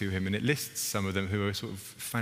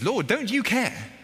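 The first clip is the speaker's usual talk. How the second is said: mock annoyed; 9 semitones higher than usual. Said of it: "She's also annoyed with Jesus".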